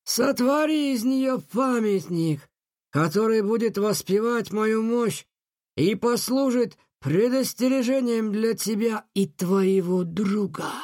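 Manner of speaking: slow, high, commanding genie; menacing command. Acted. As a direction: order it slowly, with menace. Джин приказывает дальше. (грозный приказ)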